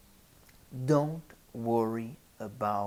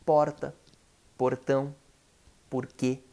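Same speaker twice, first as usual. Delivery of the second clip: regional Brazilian accent, light tapped R in porta, portão, porquê; regional Portuguese accent; 3 dB louder than usual. Shown as a demonstration. Teacher shows how listeners may speak, tapped-R Brazilian accent. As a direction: say porta, portão, porquê with a quick tongue-tap R. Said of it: "Maybe you speak".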